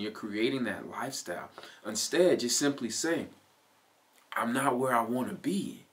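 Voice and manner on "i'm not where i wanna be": gentle self-talk. Shown as a demonstration. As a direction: say it kindly, easing your own pressure. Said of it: "hear the tone in my voice change".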